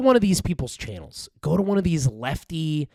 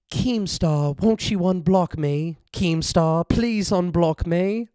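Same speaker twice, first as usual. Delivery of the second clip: mock pleading; slower than usual. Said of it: "pleading to Keemstar, slowed".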